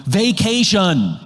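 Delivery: slow, drawn-out one-word answer; a hint of a stubborn neighbor, stretched out; deadpan repeat. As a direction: say it like it's obvious, slowly. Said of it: "And they look at you and they go".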